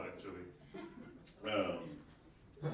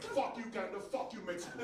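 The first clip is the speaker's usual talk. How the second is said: mock defiant president; 8 semitones higher than usual. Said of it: "you're like".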